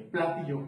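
"platillo" with the stress moved to the first syllable, PLA-ti-llo; shifted word stress. Shown as a demonstration. Drum teacher showing how accents change a word, "platillo" stressed as PLA-ti-llo. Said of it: "a la hora de hablar".

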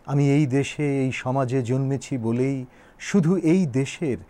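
measured declaration with deliberate pauses; steady, solemn recital; formal speech recitation. Acted. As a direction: deliver it as a poet's public address. Recites Nazrul's speech aloud.

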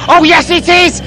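high, loud exclamation; thrilled yell; excited shout. Acted. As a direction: burst out with it.

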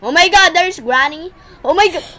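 startled loud cry. Real, not acted. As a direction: jump at the scare. Jump scare from Granny.

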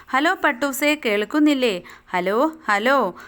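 put-on a little girl anxiously calling her kite. Abida calls her kite on the string phone, anxious. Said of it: "ഒരു പരിഭ്രമം കലർന്ന സ്വരം".

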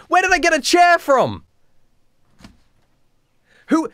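high-pitched exclamation of disbelief; incredulous outburst. Real, not acted. Reader questions the story's chair, incredulous. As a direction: blurt it out high, utterly baffled.

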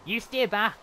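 loud, high-pitched order; sharp warning call. Real, not acted. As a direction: call out to ward someone off. Ordering a mob back.

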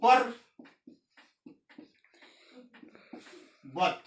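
পর্বত said as পর and বত; পর্বত spoken in two syllables; split into syllables. Shown as a demonstration. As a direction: pause between পর and বত. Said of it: "যেমন পর্বত".

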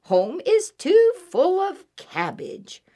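high, loud rabbit voice; twittering rabbit. A narrator's reading. Rabbit explains to Mouse about cabbage, high twitter. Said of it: "twittered Rabbit".

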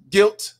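GUILTY broken in two, ending on a stretched TAY; split-up verdict. Pretend. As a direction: say "guilty" as GUILT, pause, then a long TAY. Mock verdict read out from chat.

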